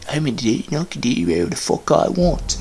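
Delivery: whiny mock voice of his excuses. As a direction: sneer the excuse back in a dopey voice. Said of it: "he would always make these excuses, like".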